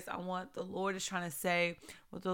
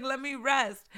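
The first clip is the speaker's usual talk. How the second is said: playful plea; 5 semitones higher than usual. Retold or imitated. Retells their plea, laughing.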